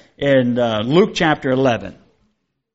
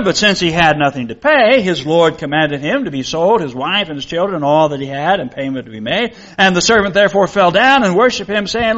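measured reading of scripture to the congregation; 2 semitones higher than usual. Acted. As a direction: read the Bible passage aloud with solemn care. Reads the parable from scripture.

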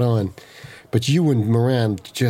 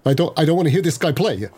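hammed-up brittle voice, higher and cracking; overdramatic brittle voice; 4 semitones higher than usual. Player retrying the line for laughs, higher overdramatic brittle voice. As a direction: overact it, pitched up, voice cracking a little. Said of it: "Let me try it again".

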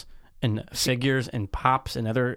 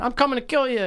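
toy villain voice; 11 semitones higher than usual. Pretend. Voicing a toy figure.

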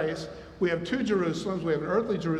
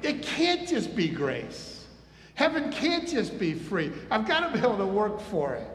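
imitated legalist objector; 4 semitones higher than usual. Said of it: "They're the ones going".

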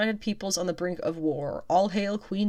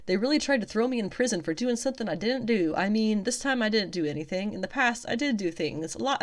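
put-on southern accent; 3 semitones higher than usual. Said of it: "I don't know why she has a southern accent".

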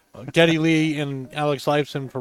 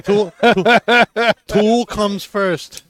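excited; 6 semitones higher, 9 dB louder, much slower than usual. Real, not acted. Excited fan exclaiming about band.

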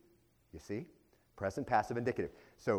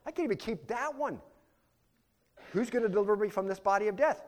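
Paul's anguished confession; 10 semitones higher, 4 dB louder than usual. Retold or imitated. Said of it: "He says, um".

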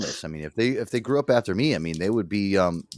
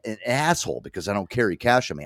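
ordinary talk, nothing marked

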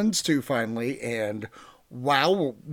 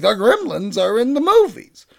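unvoiced mock Bugs Bunny whisper, higher; 8 semitones higher, 7 dB louder than usual. Bugs Bunny whispering the news about the Gremlins. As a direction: breathe it out like a cartoon rabbit telling a secret. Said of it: "And Bugs Bunny's like".

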